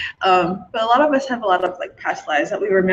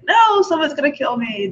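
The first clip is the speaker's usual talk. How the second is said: higher, protesting worried voice; mock panic; 6 semitones higher than usual. Arguing back at herself over past-life fear, mock panic. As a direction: play the scared self, lightly panicky. Acted argument with own fearful self.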